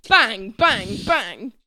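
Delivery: loud spoken bangs; mimed gunshots. Pretend. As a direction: punch out pretend gunshots. Acts out shooting Ali dead.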